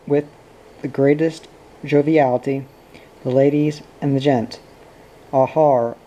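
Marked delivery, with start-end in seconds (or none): 5.3-6.0 put-on drunk dad greets his boys, jovial; hearty greeting. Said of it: "he cried, in fine greeting".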